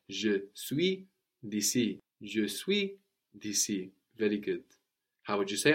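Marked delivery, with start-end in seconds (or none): 0.1-3.9 Je suis d'ici with de and ici merged as disi; slow, clear d'ici; patient teacher demo; slow model answer. Shown as a demonstration. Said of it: "That de, followed by a vowel, will contract".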